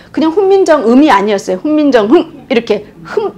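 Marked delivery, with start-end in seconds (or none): 1.6-2.5 훈민정흠 with a quick, hard-cut final 흠; short strong ending. Shown as a demonstration. Teacher demonstrating an old hard final sound. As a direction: clip off 훈민정흠 sharply at the end. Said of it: "빨리 딱 끝나는 센 소리였어".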